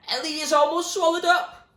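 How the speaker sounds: high, loud raving shout; wild yell. Acted. William rants wildly at the top of the choir, shouting. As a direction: rant it like a madman. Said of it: "he yelled, his eyes wild".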